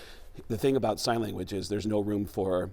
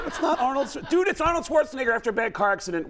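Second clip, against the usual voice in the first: laughing; 12 semitones higher, faster than usual. Retold or imitated. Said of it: "so I can get away with something really lame".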